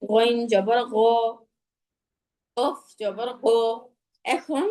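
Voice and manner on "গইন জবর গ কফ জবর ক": thick, back-of-mouth গ and ক; full-mouthed emphatic গ and ক drill; heavy letters. Shown as a demonstration. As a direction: round the lips on গইন and কফ. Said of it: "সবগুলা মোটা হরফই আমি".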